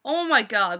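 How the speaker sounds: high, loud, drawn-out "seriously?"; can't believe what she's hearing; stretched incredulous cry; exasperated disbelief. Retold or imitated. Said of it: "And it's like".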